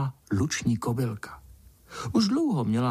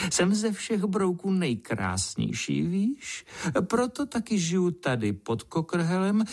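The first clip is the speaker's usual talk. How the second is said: higher, slow, preening beetle lady; vain golden beetle; 4 semitones higher than usual. Acted. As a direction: coo with vanity, admiring herself. (ješitná broučice, vyšším hlasem a pomalu)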